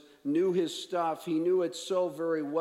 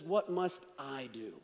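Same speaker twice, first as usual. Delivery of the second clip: "I" leaned on in a lower delivery; stress on I; 3 semitones lower than usual. Retold or imitated. Expert asking about himself, stress on "I". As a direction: put the weight on "I". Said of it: "The emphasis is on".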